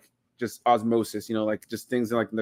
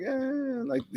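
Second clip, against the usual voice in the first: a short, high, hushed Pacino-style eh; tossing off a bad line like Pacino; a hint of Pacino in one syllable; mock Pacino delivery; 13 semitones higher, 7 dB quieter than usual. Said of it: "you could hear the Pacino coming out".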